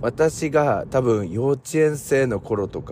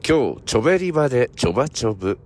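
slow model phrase; 2 semitones higher, faster than usual. Shown as a demonstration. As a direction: clear teacher demo at normal pace. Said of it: "repeat after me".

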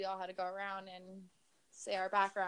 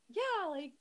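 mock praise; 7 semitones higher than usual. Mimicking the family's praise.

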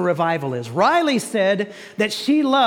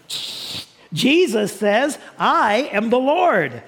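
slow toy-like announcer, hushed shh; a light talking-toy imitation; slower than usual. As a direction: mimic a talking toy, deliberately. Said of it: "Jesus See and Say".

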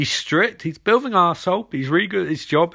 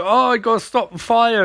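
mock alarm; 6 semitones higher, 4 dB louder than usual. Acts Barry rushing to the fire.

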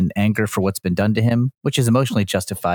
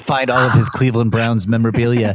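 Evil Dude voice; 3 semitones higher than usual. Pretend. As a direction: gloat it out like a movie supervillain. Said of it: "I am evil".

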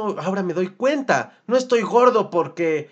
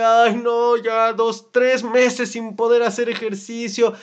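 higher, mild mock whine; lightly hammed-up self-pity; whiny complaining; 4 semitones higher, slower than usual. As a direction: moan about the injury. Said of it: "lo mismo era de".

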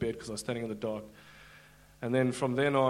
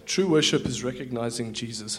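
a louder, proclaiming repeat; declared aloud; 6 dB louder than usual. Shown as a demonstration. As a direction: proclaim it to the room. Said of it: "Say it, just say it one more time".

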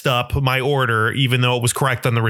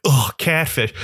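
groaned, dismissive ugh; scornful groan, put on; mock disgust; slower than usual. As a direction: imitate someone let down by the catch. Mimics people scorning his catfish.

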